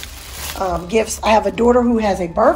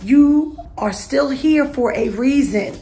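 heartfelt pep talk, preacher's cadence; little sermon. Real, not acted. Vlogger encouraging her viewers, lightly preaching. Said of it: "I ain't gonna preach to y'all".

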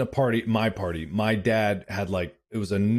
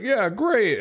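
dad voice; 11 semitones higher than usual. Retold or imitated.

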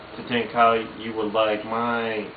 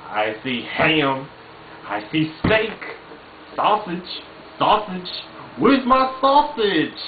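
building from plain to much higher and louder demand; Cotton Hill impression; 7 semitones higher, 3 dB louder than usual. Cotton demands his sausage, building to a higher yell. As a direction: work up to a shout for sausage like Cotton. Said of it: "Cotton Hill".

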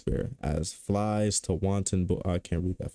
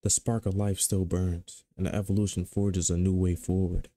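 narrator voice. Pretend. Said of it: "I'm gonna do my little narrator voice".

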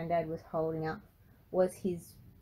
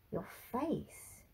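soft, troubled question; concerned; 3 semitones higher, 8 dB quieter than usual. A narrator's reading. Granddad stares at Frankie's face, softly concerned. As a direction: ask quietly, with concern. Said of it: "he repeated with concern".

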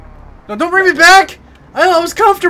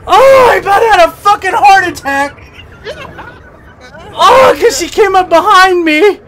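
yelling across the room. Real, not acted. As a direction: yell it still shaken. After jump scare.

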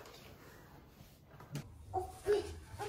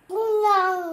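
put-on baby dinosaur roar; 11 dB louder than usual. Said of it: "이제 좀 공룡 같네".

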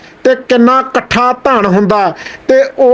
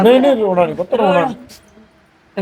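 gentle consoling; 4 dB quieter than usual. Real, not acted. Consoling a crying child.

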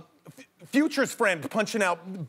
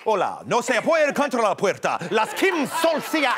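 Latina soap-opera actress; 2 semitones higher, 3 dB louder than usual. Acted. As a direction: play a Spanish-speaking soap star, hammed up. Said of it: "She sounds like a, like a, like a Latina, like, actress, like, in, like, a soap opera".

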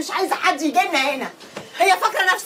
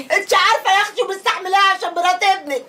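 bitter half-laugh breaking into crying; laughing through tears; 3 semitones higher than usual. Acted. Daughter complains to her mother, crying and laughing. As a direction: laugh and cry at once.

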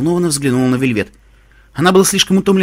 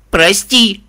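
crying apology; 5 semitones higher, 4 dB louder than usual. A narrator's reading. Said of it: "крикнула я в ответ, разрыдавшись".

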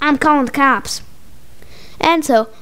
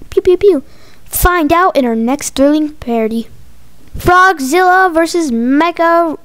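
cliffhanger announcer; 2 semitones lower than usual. A narrator's reading. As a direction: draw out each question like a serial announcer.

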